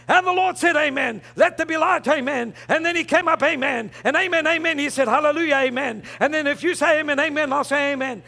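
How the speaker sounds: lightly mocked preacher cadence; hint of a parodied revival preacher; imitating amen-happy preachers. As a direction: toss in "amen" like a verbal full stop. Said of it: "You hear some preachers, preachers say".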